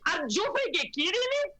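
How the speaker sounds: put-on high Venezuelan accent, rising outrage; Venezuelan accent impression. Mother repeating a Venezuelan rally woman's accent for the panel. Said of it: "obsessed with her accent".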